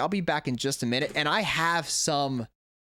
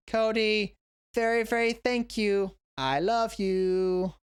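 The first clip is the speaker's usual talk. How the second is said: fond card reading; 5 semitones higher, much slower than usual. Retold or imitated. Reading student's card aloud.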